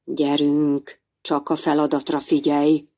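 nyugodt, mélyebb bátorítás; bátorítsd a kicsit higgadtan; bátorító. Acted. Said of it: "biztatta Némót". (Búb bátorítja Némót a szűrőben)

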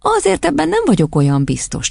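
high, placating teacher's voice; hushing teacher. A narrator's reading. Cukorkisasszony calming Otto's threat, hushing. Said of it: "csitított a Cukorkisasszony".

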